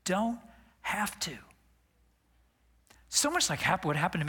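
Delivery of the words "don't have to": breathy whisper, barely voiced. Real, not acted. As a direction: let it fall to a whisper. Sermon climax dropping to hush.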